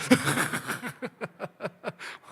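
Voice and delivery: high amused laugh; laughter. Real, not acted. Preacher laughing after the Manado and Toraja joke. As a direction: laugh at the punchline.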